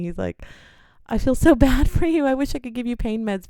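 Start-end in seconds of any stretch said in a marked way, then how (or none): 1.1-3.5 smiling sympathy. Retold or imitated. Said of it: "was really nice".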